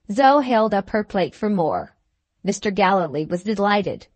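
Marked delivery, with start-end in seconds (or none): none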